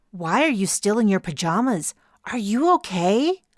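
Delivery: lightly voiced sugary pretend worry; fake concern. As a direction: rival captain faking concern to gloat. Rival feigning concern.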